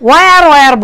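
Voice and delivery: "where" said as plain "waar", no h; where without the h. Shown as a demonstration. Teacher quoting learners, "where" said without the h. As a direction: say "where" with a simple w start, no h sound. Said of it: "বলে না নেটিভেরা".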